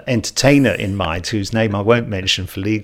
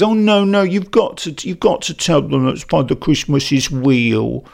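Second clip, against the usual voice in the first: mocking silly voice; 3 semitones higher than usual. Mimicking adults who insist Santa is real, in a mock babyish voice. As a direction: ham up the grown-ups' fake babytalk. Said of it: "people often put on those stupid voices".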